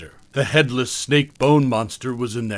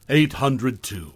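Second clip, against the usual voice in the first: pointed correction; slower than usual. Acted.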